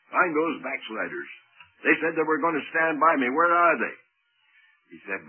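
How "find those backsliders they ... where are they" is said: mock exasperation. Imagined exasperated Lord.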